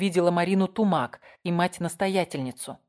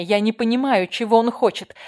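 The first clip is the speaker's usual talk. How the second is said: louder, higher panicked cry, gasping for air; 4 semitones higher, 6 dB louder than usual. A narrator's reading. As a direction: plead in terror, out of breath. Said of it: "задыхалась". (испуганно, задыхаясь)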